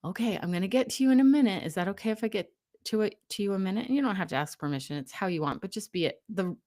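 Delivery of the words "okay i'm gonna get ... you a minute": fast, light reassuring; quick reassurance. Pretend. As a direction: brush the part off kindly and quickly. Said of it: "And then you go".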